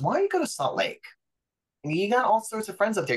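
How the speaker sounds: high, fast sister voice; chirpy quick sister impression; lightly voiced sister urging a trip; imitating sister.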